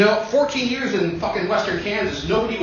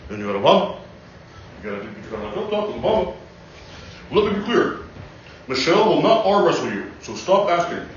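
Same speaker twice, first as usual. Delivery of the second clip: measured presidential pauses; Obama impression. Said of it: "The other presidents are harder".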